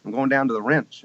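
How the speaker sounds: a touch of Texas twang; Texas family accent. Retold or imitated. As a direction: voice Texan kin saying "wrench" for ranch. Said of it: "my family say the wrench".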